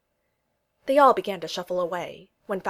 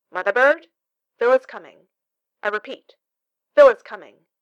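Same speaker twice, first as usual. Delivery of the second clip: urgent radio alert; 3 semitones higher, 12 dB louder than usual. A narrator's reading. Falsworth warning the toys over the receiver, urgent and loud. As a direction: sound the alarm over the radio.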